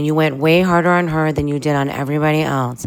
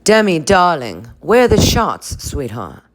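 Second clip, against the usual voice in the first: lightly voiced Lisa. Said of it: "And Lisa's like".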